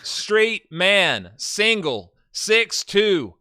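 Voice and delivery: loud, hammed-up profile read; dramatic profile reading. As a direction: read it like a bold personal ad. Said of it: "maybe I should do a southern accent".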